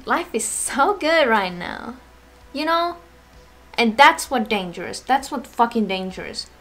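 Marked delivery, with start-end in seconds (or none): 0.1-1.9 slow, mock-contented delivery; fake happiness. Showing viewers how masking works, mock happiness. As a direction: put on a mildly fake happy front. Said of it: "put on a mask and be like".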